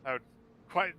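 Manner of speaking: high, grand, theatrical ghostly host; flaming skull voice. Acted. Skull thanks, embarrassed, rambling.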